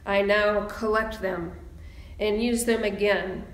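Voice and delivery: poem reading. Acted. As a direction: let each line land, pausing between.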